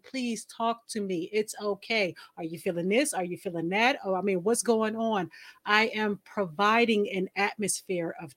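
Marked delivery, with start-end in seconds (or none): 0.0-5.3 softly pleading with a sulking man; soothing coax. Retold or imitated. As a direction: gently coax someone to open up. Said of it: "finessing and massaging".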